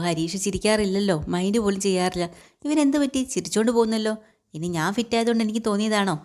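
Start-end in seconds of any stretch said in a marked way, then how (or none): 2.7-6.1 higher, wondering aloud, mildly surprised; a touch of tipsy bafflement at the smiling son; puzzled surprise. Retold or imitated. Father baffled by son smiling at him, mild surprise. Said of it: "അത്ഭുതം കേട്ടോ".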